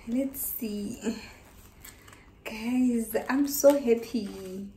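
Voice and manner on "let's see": whispering. Real, not acted. Quiet aside.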